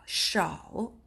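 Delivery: whispered 샤오 with the breath hissing through; breathy hissed sound. Shown as a demonstration. Teacher showing the windy sh in 샤오. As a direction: let the air hiss out on 샤오. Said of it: "바람 소리가 좀 날 거예요".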